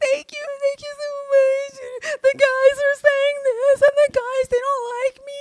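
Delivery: blubbering, tearful, very high crying voice, much drawn out. Retelling what a crying Janae said: mock crying as Janae. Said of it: "Janae cries, and she's over there saying".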